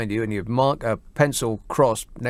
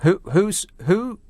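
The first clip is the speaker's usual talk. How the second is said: high, stammering disbelief; taken aback; 6 semitones higher, slower than usual. Real, not acted. Radio host thrown by caller asking who is speaking, baffled. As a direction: stumble over it, pitched up in bafflement.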